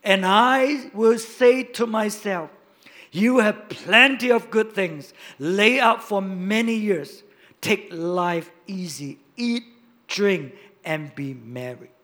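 slow, loud self-satisfied rich man; smug rich man talking to himself, slow and loud; rich man's boast. Acted. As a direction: savour every word like a smug rich man. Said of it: "And what did he say?".

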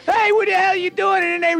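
mock dad yelling. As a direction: imitate a father yelling at the kids. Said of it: "your dad would yell".

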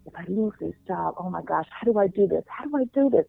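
mildly panicked, as if fearing losing the job; retold freaking out. The night worker worrying about her job, mild mock panic. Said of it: "And she's freaking out".

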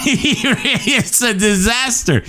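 high, slow laughing wail; cracking up while speaking. Real, not acted. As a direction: choke it out through laughter. Laughing at failed accent.

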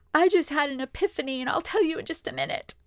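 high, tearful voice, words pushed out through crying. Retold or imitated. Telling her husband through tears after the shower, crying. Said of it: "now back to my normal voice".

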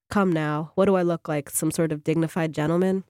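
put-on a lazy try at a British accent. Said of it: "He said it in an attempted British accent".

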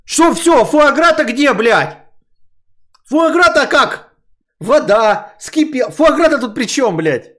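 high, loud yell of disbelief; exasperated yelling. Retold or imitated. Retold argument about foie gras.

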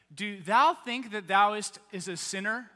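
lightly hammed-up holy voice, loud start; mock a pious churchgoer's solemn questioning. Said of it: "we have to flip on, like, holy voice".

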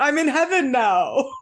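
a lightly voiced awkward grown man as a dog; mismatched dog voice. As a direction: play the wrong voice dubbed onto a dead pet. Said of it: "a voice that just wasn't gonna match the dog".

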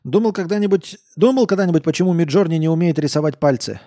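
put-on loud, high drunken question; a tipsy coder pressing hard. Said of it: "Он пьяно посмотрел".

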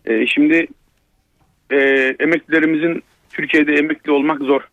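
caller's voice down a phone line; over a landline phone. Real, not acted. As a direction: narrow telephone sound. (telefon hattından gelen ses)

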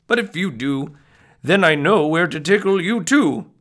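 lively storybook read-aloud; reading to children. Acted. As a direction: read it like a bedtime picture book. Reads picture book aloud.

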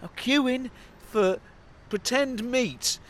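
hammed-up Irish accent; imitated Irish accent. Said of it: "Can you do it in the accent?".

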